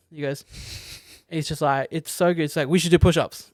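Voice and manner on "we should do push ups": imitating a stiffly straight, louder command; straight, full-stop delivery. Film fan quoting an awkward man acting masculine, straight and louder. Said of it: "talks very straight, full stops".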